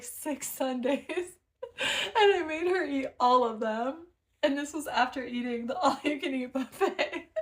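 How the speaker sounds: giggling through the words; words breaking into giggles; laughing. Real, not acted. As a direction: laugh as you tell it. Laughing while telling prank story.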